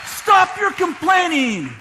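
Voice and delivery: slow emphatic command; preacher scolding the congregation; stern rebuke. Real, not acted. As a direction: lay down the order.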